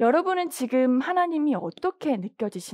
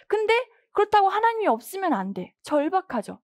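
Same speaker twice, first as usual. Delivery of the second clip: ordinary talk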